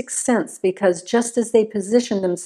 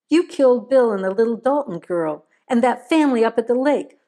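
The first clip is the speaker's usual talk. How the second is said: hissed accusation; 3 semitones higher than usual. Acted. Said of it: "Maynard hissed".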